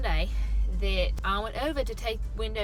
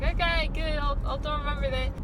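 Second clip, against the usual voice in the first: high, shaky attempt at an Australian accent; bad Australian accent; 6 semitones higher than usual. Worker answering customers who like the accent, bad Australian accent. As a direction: try an Australian accent and miss. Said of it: "not a good representation of my Australian accent".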